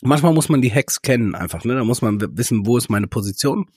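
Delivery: sucking a throat lozenge. Real, not acted. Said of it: "Sorry, wenn ich mich so ein bisschen danach anhöre, dass ich hier einen Bonbon im Mund hab".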